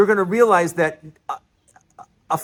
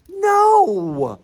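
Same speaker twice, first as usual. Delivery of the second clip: emphatic no; 13 semitones higher, 4 dB louder than usual. Real, not acted. Rebutting Republicans good for business.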